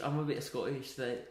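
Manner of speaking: put-on tentative, soft Scottish accent; feeling for a Scottish accent; Scottish accent attempt. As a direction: try out a rough Scottish accent, quietly. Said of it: "Can I try a Scottish accent?".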